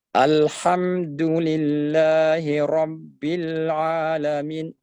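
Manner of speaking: slow Alhamdulillahi Rabbil Alamin with a two-beat a; correct two-beat length. Shown as a demonstration. Teacher modelling the correct length. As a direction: hold the a for just two beats. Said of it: "Jadi cukup dua harakat".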